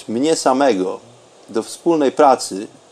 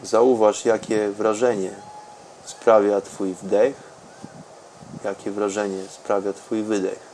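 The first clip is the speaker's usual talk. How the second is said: softer and softer meditation voice; guided meditation; 4 semitones lower, 13 dB quieter than usual. Acted. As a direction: let the voice sink into calm. Deep meditation, fading very soft.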